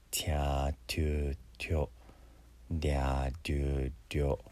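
"ティャーテューテョ、デャーデューデョ" with a Y glide after T and D; 日本語にない発音. Shown as a demonstration. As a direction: drill "ティャーテューテョ、デャーデューデョ", first vowels stretched. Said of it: "日本語にない発音なので". (「ティャーテューテョ、デャーデューデョ」を伸ばして手本)

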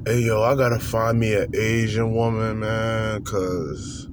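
deep, slow, lazy imitation of the guy; low drawn-out mimicry of a hopeless dater; low mocking voice. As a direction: drop low and drag it out like him. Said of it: "This is how he talks".

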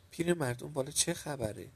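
put-on storyteller's upset old woman shouting. A narrator's reading. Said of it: "با ناراحتی فریاد زد".

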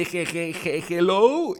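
shaky stammered hello, rising; nervous stammer. Retold or imitated. Nervous young man answering the big call, stammering. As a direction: stammer the hello like a scared kid. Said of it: "contesté el teléfono así de".

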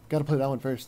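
whispered aside; whispering. Real, not acted. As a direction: whisper it like a secret. Conspiratorial aside about House Flipper.

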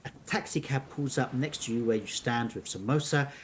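measured storybook narration; narrating an unfolding mystery tale; story narration. A narrator's reading. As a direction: read the adventure aloud to listeners. Reads the story on.

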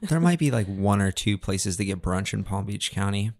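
dry sarcastic understatement. Real, not acted. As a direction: say it with heavy sarcasm. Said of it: "I'm being very sarcastic".

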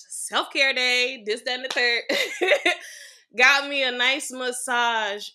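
slow, loud, laughing through it. Real, not acted. Guest laughs recalling her massage day, slow and loud. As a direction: giggle while savoring the memory.

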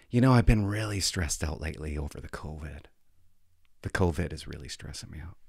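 mock a self-pitying complaint; lightly voiced stressed teacher; whiny teacher. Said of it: "I don't know why she's talking like this".

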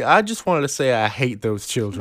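hammed-up Southern townsman taking the floor; slight Southern accent. Playing the farmer at the town meeting, slight Southern accent. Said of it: "giving him slightly Southern accent".

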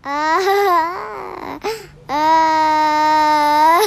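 breathless giggling; stifled helpless giggles; laughing. Real, not acted. The speaker laughing, can't answer.

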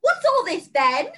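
slow, loud British bobby parody; mocking British accent. Everybody mocking Ryder, exaggerated British accent. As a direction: parody British speech, drawn out. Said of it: "mock them in a British accent".

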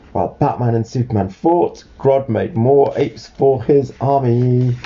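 put-on clear, lively read-aloud to a child; storybook narration.

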